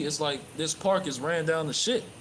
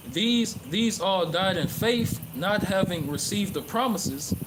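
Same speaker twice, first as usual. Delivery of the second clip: slow, measured Bible reading; scripture reading; 2 semitones higher, slower than usual. Acted. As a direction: read the verse like a preacher, deliberate. Reads scripture aloud in sermon.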